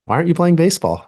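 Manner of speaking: a hint of a small daughter's complaint; daughter's question. Daughter voiced in retold story.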